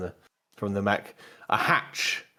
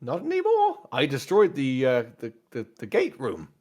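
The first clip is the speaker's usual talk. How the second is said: Nim; 3 semitones higher than usual. Acted. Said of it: "I'll call you Nim".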